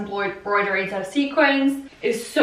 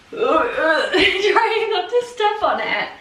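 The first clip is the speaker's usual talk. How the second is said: laughing; 6 semitones higher, much slower than usual. Real, not acted. Laughing about awkward dress on stairs.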